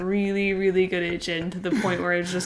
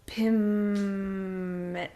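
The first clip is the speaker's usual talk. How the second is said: syllables said in reverse; backwards speech. Pretend. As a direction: speak it backwards. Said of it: "How do you say the backwards".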